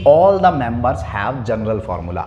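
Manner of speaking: slow dictation. Shown as a demonstration. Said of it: "पहला characteristic क्या समझा हमने".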